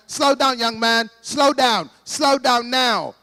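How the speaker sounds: loud cop yelling at a runner, slowing on the last words; shouted warning. Retold or imitated. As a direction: bark it like a cop on a bad morning. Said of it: "he shouted to me".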